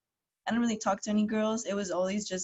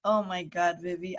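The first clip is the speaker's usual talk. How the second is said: normal talking voice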